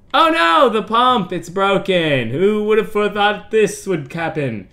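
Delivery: high, loud mock panic; shocked cry. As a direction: yelp it like disaster just struck. Pump breaks, water everywhere.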